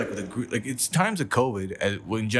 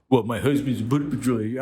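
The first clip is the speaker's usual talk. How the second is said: mock proud wife; faster than usual. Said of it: "the wife's like".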